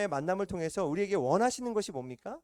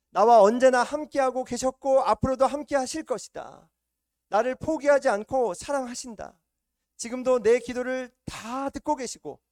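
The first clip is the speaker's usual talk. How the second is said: higher and much louder, ringing declaration; fervent preaching; 6 semitones higher, 9 dB louder than usual. Real, not acted. Preacher proclaims God's faithfulness to the congregation, loud and fervent.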